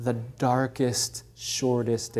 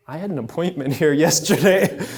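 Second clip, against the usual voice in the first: laughing aside; 2 semitones higher, 3 dB louder than usual. Retold or imitated. Juan Diego remembers.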